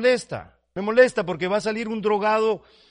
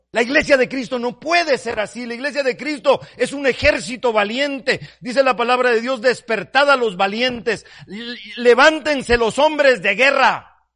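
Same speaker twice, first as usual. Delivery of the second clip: loud, high battle cry of a preacher; rallying shout; 5 semitones higher, 7 dB louder than usual. Real, not acted. Preacher to congregation, loud rallying cry. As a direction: rouse the church like an army.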